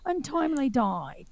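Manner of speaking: badly faked British, delivering bad news; horrible British accent. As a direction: imitate a British comic, drawing out the vowels. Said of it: "it's my horrible British".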